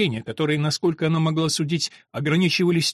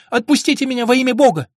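higher, louder desperate plea; pleading cry; 8 semitones higher, 5 dB louder, faster than usual. A narrator's reading. Antonia begging the monk to release her: higher, louder plea. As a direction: beg to be released, voice raised. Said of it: "кричала она".

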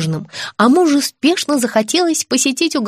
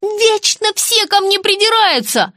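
much higher, slowed indignant flare; flaring up; 11 semitones higher, slower than usual. A narrator's reading. Daughter flaring up at her mother, high and slow. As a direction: bristle at being picked on. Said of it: "вскинулась была Настя".

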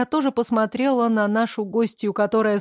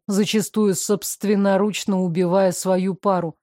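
lower, even male voice; calm man; 3 semitones lower than usual. Acted. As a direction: play him calm and reserved.

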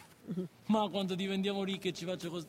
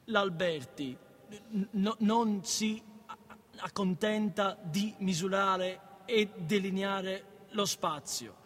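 slow, stumbling read of a textbook; careful slow reading; halting reading aloud; much slower than usual. Acted. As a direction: read it word by word like a struggling student.

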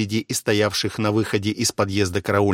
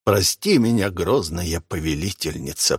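theatrical repentance; 3 semitones lower than usual. Acted. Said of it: "картинно упал на колени и покаянно".

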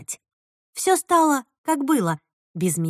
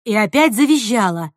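ordinary delivery, nothing marked

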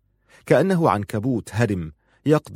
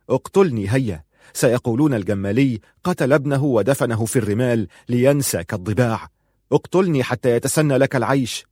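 loud, frenzied; 3 semitones higher, 3 dB louder than usual. Acted. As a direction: shout it at his father, half mad. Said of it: "بصوت عال".

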